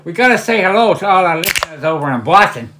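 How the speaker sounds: put-on Boston accent; playful attempt at a Boston accent. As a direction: greet listeners in a mock Boston accent. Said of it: "That's a Boston".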